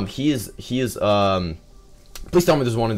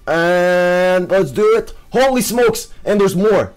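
much higher, louder exclamation; excited shout; 7 semitones higher, 5 dB louder than usual. Real, not acted. Gamer sees loot drop, shouting excitedly high. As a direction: burst out in real excitement. Gold drops appear in game.

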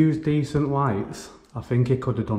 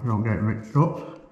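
talking around a pen lid; words muffled by a pen lid; pen lid in mouth. Real, not acted. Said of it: "I had a pen lid in my mouth".

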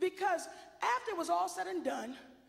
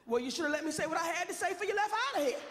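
smug told-you-so; 2 semitones higher, faster than usual. Retold or imitated. Wife lecturing crying husband.

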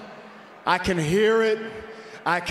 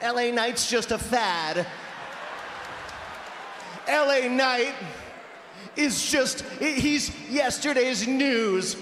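mocking Miz voice; 2 semitones higher, 3 dB quieter, slower than usual. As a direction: sneer it like a smug rival. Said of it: "He says the same tired old material".

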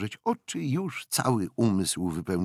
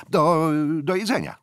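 louder and higher, spelling it out for a foreigner; loud emphatic repeat; 10 semitones higher, 7 dB louder than usual. A narrator's reading. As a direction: repeat it loudly so she understands. (głośno i dobitnie, jak do cudzoziemki)

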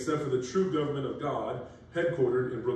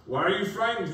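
voice of Jesus; 7 semitones higher, 5 dB louder than usual. Acted. Voicing Jesus in scripture.

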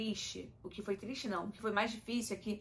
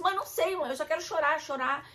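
whiny tearful plea; 7 semitones higher, 6 dB louder than usual. Retold or imitated. Retells tearful talk with mother.

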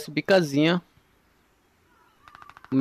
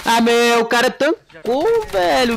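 agudo e alto, indignado; 8 semitones higher, 4 dB louder, much slower than usual. Real, not acted. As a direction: reclama incrédulo do inimigo. Inimigo aguenta os tiros. (indignação agitada)

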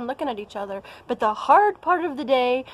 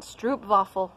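Stroopwafel in a plain bad American accent. Shown as a demonstration. Vlogger says the Dutch treat in a bad American accent. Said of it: "I'll say it with my bad American accent".

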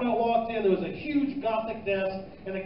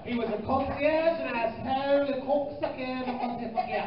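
mock concierge cadence; 4 semitones higher than usual.

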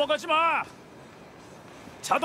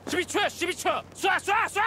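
shouting; 5 semitones higher than usual. Acted. Urging drinker on timer.

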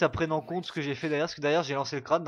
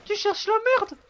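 mock tough guy; 6 dB louder than usual. Mock street confrontation.

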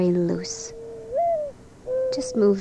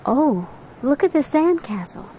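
higher-pitched onlooker's exclamation; mild mock admiration; 6 semitones higher than usual. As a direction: lightly voice an admiring passer-by. Voices admiring people on the beach.

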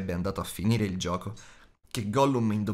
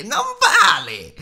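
sudden high shrieking creature cry, much louder; hissed shout; 10 dB louder, slower than usual. A narrator's reading. Gollum screeching at Bilbo over the unfair riddle. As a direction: Gollum screeches his protest. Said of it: "sibilò".

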